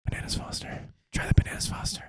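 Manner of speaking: secretive unvoiced ASMR whisper. CIA operative leaning over to the diner, whispering. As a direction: whisper it close, as if into an ear. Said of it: "I don't know why he's whispering in your ear".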